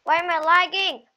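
hyped gamer bro. Real, not acted. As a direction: rant like a raging streamer. Gamer raging at lag.

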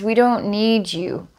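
a brute telling off the creature, word by word; brute scolding. Retold or imitated. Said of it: "looks at it and says".

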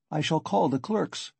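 measured threat to call for help; controlled, official warning; composed warning. Acted. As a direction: warn him without raising your voice. Warns a shouting man.

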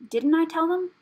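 indignant I-told-you-so; cross. A narrator's reading. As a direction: complain crossly to yourself, pitch climbing. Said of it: "she muttered crossly to herself".

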